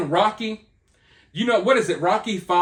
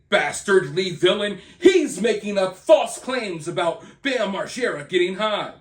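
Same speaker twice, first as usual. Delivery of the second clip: mock fan denial. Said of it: "the Free Bam movement will come".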